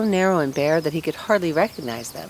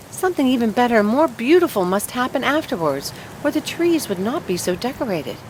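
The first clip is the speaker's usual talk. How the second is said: put-on higher, yearning young tree; longing fir tree; 4 semitones higher than usual. Fir tree dreaming aloud of Christmas, yearning and higher. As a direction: ache for Christmas to come.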